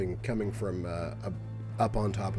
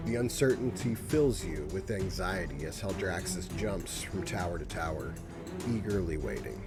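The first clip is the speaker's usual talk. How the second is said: game master narration. A narrator's reading. GM describes the burning city.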